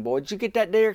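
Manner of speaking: high, eager call across the woods; a retold shout of "did you get it"; excited call. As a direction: call out hopefully to the brother. Brother calling out in the woods.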